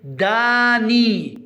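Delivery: داني slow but joined up, vowels long; slow model word. Shown as a demonstration. Teacher naming the pictured person, داني slow and joined. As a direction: say داني slowly as one word. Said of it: "ما اسمه؟".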